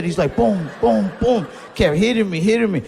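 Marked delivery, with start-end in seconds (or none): 0.3-1.5 imitated punch thuds. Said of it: "He just kept hitting me".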